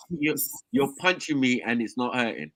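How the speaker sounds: slow, lightly crusty imitation; crusty sick voice. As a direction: drag it out like a shrugging sick guy. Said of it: "the Ponytail voice, all crusty".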